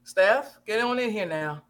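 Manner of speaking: loud call across the room. Real, not acted. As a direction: call her in, firm and loud. Calling someone into the room.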